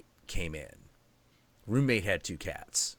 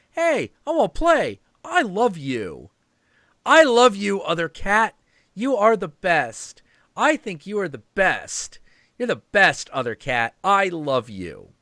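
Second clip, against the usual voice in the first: eager kitten voice; 7 semitones higher, 5 dB louder than usual. Retold or imitated. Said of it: "Mego just continues to be like".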